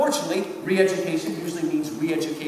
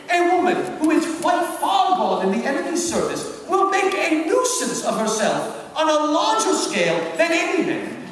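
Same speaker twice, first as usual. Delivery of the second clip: dramatic Screwtape reading; 3 semitones higher than usual. Acted. Teacher reads Screwtape's letter to the class, hammed-up and gleeful. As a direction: savour every line like a gleeful demon.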